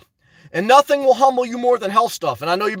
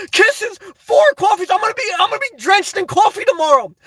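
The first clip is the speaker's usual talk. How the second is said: hyped up; 6 semitones higher than usual. Real, not acted. Streamer still buzzing after a big donation, giddy high rant. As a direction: ride the buzz of the donation.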